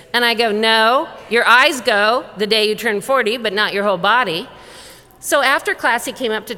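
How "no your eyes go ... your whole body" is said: loud, firm mock rebuttal; emphatic correction. Teacher setting a mistaken patient straight, emphatic. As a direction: correct him with punched, louder words.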